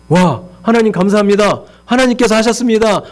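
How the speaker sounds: high-pitched acted-out thanksgiving; effusive praise. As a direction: imitate gushing praise to God. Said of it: "막 찬양하고 난리도".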